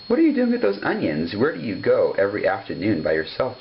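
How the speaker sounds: a watchful farm dog catching the duck out; suspicious collie dog. Acted. Collie dog confronts Jemima.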